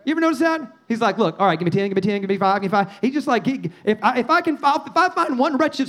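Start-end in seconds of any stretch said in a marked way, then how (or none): 1.2-2.9 haggling in quick repeated offers; bargaining. Retold or imitated. Imitating Abraham negotiating with God, bargaining. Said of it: "he's just praying and pleading and bargaining".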